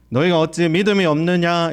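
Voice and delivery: understated reproach; mild rebuke. Acted. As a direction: gently scold the disciples. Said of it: "제자들 책망하고 있습니다".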